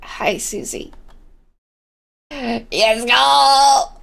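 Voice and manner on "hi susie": whisper. Real, not acted. Greeting quietly.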